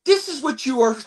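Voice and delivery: lightly hammed-up stage line; a touch of stagey grandeur; theatrical audition delivery. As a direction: re-enact an overly theatrical audition read. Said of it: "I made it very theatrical".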